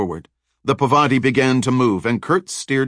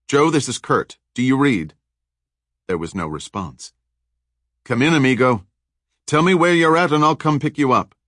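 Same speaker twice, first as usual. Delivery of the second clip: Kurt calling over the radio, raised and urgent; 4 semitones higher than usual. Acted. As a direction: call out for your missing friend.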